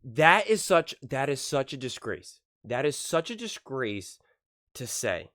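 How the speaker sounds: indignant outburst, punched opening then slowing; real indignation, held in check; blood boiling. Real, not acted. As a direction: cut in outraged, then weigh each phrase. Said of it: "my blood is boiling right now".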